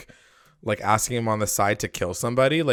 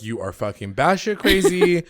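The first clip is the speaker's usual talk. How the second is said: imitating an outraged man, higher pitch; retold outburst, raised in pitch but not shouted; mock freak-out; 4 semitones higher than usual. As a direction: play a mild version of freaking out. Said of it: "that's when he freaks out".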